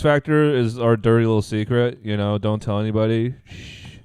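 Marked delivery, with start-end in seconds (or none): 3.5-4.0 shushing. Pretend. Shushing to keep secret.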